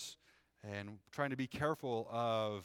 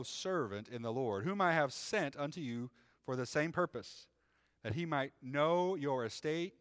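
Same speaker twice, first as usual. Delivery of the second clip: measured, raised reading voice; scripture reading. Acted. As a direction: read it like the pulpit Bible. Reads scripture aloud.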